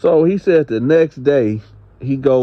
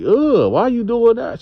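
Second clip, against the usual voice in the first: mock disgust; 12 semitones higher than usual. Acted disgusted reaction to pee jars.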